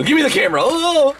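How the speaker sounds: high cry shooting up into a yelp; hammed-up scuffle outburst; grabbing the camera. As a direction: demand it, then yelp.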